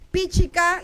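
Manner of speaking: "Píchica" with the force on Pí; stress on first syllable. Shown as a demonstration. Teacher showing learners where the force falls, stressed first syllable. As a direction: lean on the opening Pí of "Píchica". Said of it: "la fuerza está en pi".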